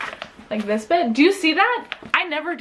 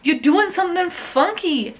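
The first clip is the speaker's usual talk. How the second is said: sassy warning; 7 semitones higher, 3 dB louder than usual. Retold or imitated. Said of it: "I was like".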